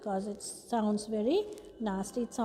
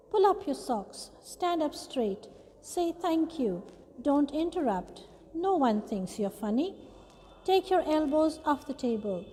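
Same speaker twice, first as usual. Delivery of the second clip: lightly voiced nagging parent, one order after another; nagging grown-up; 3 semitones higher than usual. Teacher reading a poem of parents' orders to pupils, lightly nagging. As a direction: recite a list of scoldings, each a separate command. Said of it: "Grown-ups say things like".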